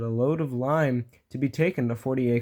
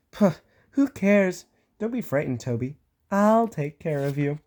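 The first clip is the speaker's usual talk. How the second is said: scoffing bravado; 3 semitones higher than usual. Acted. Thomas boasting to scared Toby, scoffing. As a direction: brush off the fear like a know-it-all. Thomas dismissing Toby's fear.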